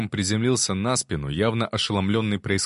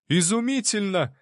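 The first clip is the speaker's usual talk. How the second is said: much higher, thrilled exclamation; delighted exclamation; 12 semitones higher than usual. A narrator's reading. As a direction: burst out in delight. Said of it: "воскликнул он".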